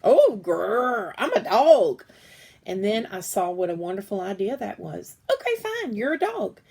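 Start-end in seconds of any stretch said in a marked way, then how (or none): 0.0-2.0 loud playful grrr like a puppy; growling little dog. Acted. Little brother pretends dog. 5.3-6.6 exasperated giving in. Acted. Giving in to brother.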